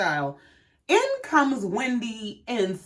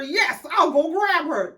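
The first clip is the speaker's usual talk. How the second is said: higher, slow, over-obliging mimicry; Greg impression; 6 semitones higher, slower than usual. Husband on best behavior agreeing to fetch mama, mock obliging. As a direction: draw out an eager-to-please yes, mockingly. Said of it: "trying to be on his best".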